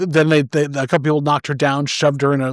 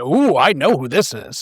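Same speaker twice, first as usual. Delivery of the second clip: plain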